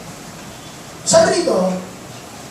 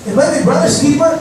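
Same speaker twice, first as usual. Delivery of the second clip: "Am I a brother's keeper" with the stress on "I", rising at the end; mildly rude rhetorical comeback; a touch of irreverent scorn; rude reply; 3 semitones higher than usual. Acted. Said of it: "that was a very rude".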